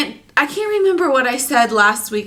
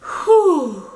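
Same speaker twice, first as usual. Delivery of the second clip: breathless whew; 5 semitones higher than usual. Real, not acted. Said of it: "out of breath all the time now".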